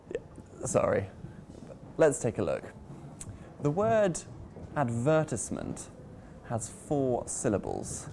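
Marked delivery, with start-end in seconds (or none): 4.8-5.9 "advertisement" with the stress on its second syllable. Shown as a demonstration. Teacher showing the word to learners, "advertisement" stressed on syllable two. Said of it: "we place the stress on syllable number two".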